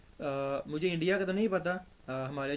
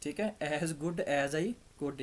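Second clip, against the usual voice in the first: slow corrected sentence; much slower than usual. Shown as a demonstration. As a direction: read the fix slowly and clearly. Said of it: "इधर हम इसको change करेंगे". (सुधरा वाक्य धीमे से पढ़ना)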